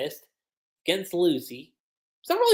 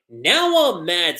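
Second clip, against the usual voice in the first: Natsu angry; 5 dB louder, slower than usual. Retold or imitated. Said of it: "Natsu's like".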